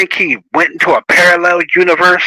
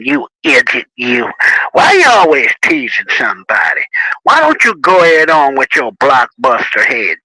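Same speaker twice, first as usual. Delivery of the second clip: mock insulting taunt. Shown as a demonstration. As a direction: jeer at him, half joking. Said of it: "I could say".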